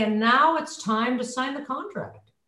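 slow, comfortable falling statement; relaxed, breath-supported close; nice easy breath. Shown as a demonstration. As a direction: breathe first, then close unhurriedly. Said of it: "then with a nice breath".

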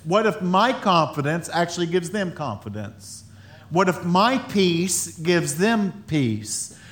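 very slow, stressing my and peace; slow emphasis. Real, not acted. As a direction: let each word land slowly. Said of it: "slow emphasis".

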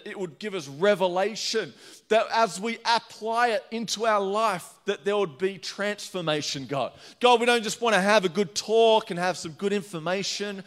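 earnest public prayer, phrase by phrase; spoken prayer. Real, not acted. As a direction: lead the congregation in prayer.

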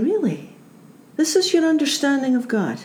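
incredulous. Retold or imitated. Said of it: "Jesus is saying".

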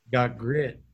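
slow, dead-serious mock wrestler; a hint of a serious old wrestler, slowly; lightly voiced wrestler. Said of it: "He was so serious about that".

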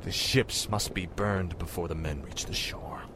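low, soft, grim command; cold and quiet. Acted. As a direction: say it coldly under your breath. Cold order to burn ships.

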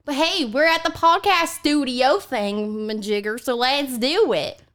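lightly voiced, drawn-out Southern granny; mean Southern granny. Granny opens the podcast studio bit, lightly voiced Southern granny. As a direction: play a bossy old Southern grandma.

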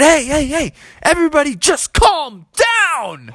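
high-pitched call for calm. Acted. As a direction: settle the crowd, hands up. Froggy calming the brawl.

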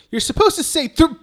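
put-on high-pitched kid prompting; imitated little girl. Host retells the girl waiting on the count, high kid voice. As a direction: put on a child's voice, pitched well up. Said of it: "then she's like".

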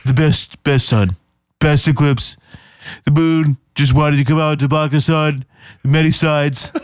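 lightly done Trump, lips pushed out, bragging; a light Trump impression, pushy and boastful; Donald Trump voice. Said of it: "You had a really good lip impression going on".

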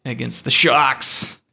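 put-on slow, drawn-out Long Island accent. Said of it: "I did the Long Island accent".

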